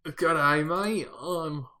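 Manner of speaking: hammed-up Australian accent attempt; bad Australian accent. Shown as a demonstration. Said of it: "Every time I try".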